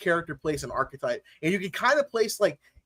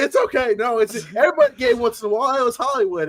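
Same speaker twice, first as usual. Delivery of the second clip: mock reassurance; 5 semitones higher, 4 dB louder, faster than usual. Quoting Tropic Thunder character.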